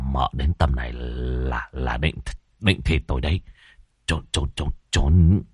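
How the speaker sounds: low, soft frightened mutter; urgent hushed plea to hide; young man frightened of his wife; hushed panic. A narrator's reading.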